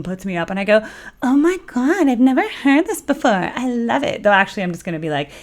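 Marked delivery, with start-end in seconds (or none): 1.2-4.2 high, gushing fake amazement; mock first-listen excitement; pretend enthusiasm. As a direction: act thrilled by a supposedly new song. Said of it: "pretending to not know".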